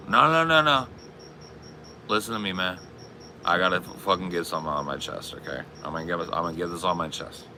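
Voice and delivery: mock-drunk, insist on being heard; drunk insistence. Acted drunk Paul insisting.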